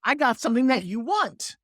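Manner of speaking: "want" leaned on as the key word; stress on want. Shown as a demonstration. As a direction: land firmly on "want" at the end. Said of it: "And I stress that word".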